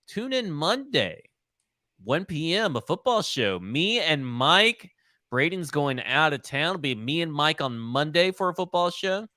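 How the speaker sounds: swooping announcer-style outro; podcast sign-off. Real, not acted. Host closing a football podcast and plugging shows, announcer-style. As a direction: plug the upcoming shows with lilting, stretched emphasis.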